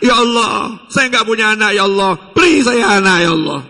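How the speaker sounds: a desperate shouted plea; last-minute shouted supplication; crying out to God. Retold or imitated. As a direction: cry out the prayer in panic. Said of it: "baru teriak".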